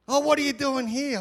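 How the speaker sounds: high, loud mimicked question; inquisitive stranger. Sauna stranger quizzing the visiting Australian, loud mimicked curiosity. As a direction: mimic an over-interested bloke.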